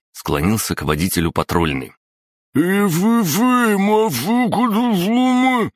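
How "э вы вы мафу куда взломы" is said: high, loud gagged yelling; shouting through gag. Acted. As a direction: yell for help through a gag. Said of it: "загласил сквозь кляп Витёк".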